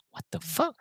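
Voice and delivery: barely voiced, whispery disbelief; imitated mouthing. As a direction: mouth it with only a breath of sound. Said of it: "but he mouths".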